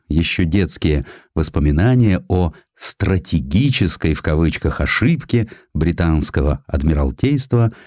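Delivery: ordinary delivery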